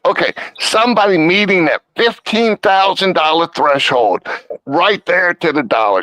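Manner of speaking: talking through a burp; words caught by a burp. Real, not acted. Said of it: "I'm burping".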